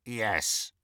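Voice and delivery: soft, croaky single word; reluctant elf. A narrator's reading. House elf admitting to Harry he took it, quietly reluctant. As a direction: let the admission out quietly. Elf confesses after a silence.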